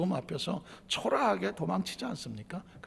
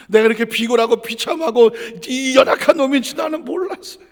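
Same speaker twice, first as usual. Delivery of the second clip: anguished lament; 7 semitones higher, 9 dB louder than usual. Retold or imitated. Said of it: "심히 통곡을 합니다".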